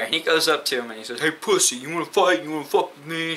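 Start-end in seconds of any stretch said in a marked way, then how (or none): 1.2-3.3 higher-pitched mock tough talk; imitated taunting challenge. Girl's cousin confronting a boy at lunch, imitated goading. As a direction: square up, imitating a cousin picking a fight.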